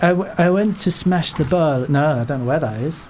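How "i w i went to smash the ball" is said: put-on a botched French accent that drifts off. Footballer's quote read out in a failed French accent. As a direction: try a French accent, badly. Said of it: "Shall I do the French accent?".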